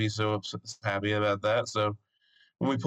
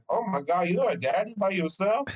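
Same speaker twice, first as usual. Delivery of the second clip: imitating amazed lady; 6 semitones higher than usual. Mexican cleaning lady marveling at a dad alone with his baby, higher gushing voice. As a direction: gush like a delighted stranger. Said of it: "just being like".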